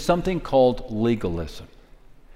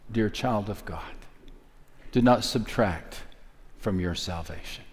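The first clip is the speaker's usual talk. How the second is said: much softer and lower, tender; tender hush; 5 semitones lower, 9 dB quieter than usual. Real, not acted. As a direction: comfort the listener gently, almost whispering. Tender pastoral address.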